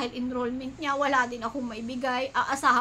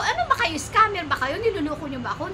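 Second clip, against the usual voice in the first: angry; 3 semitones higher than usual. Retold or imitated. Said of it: "Nagalit na ako dun".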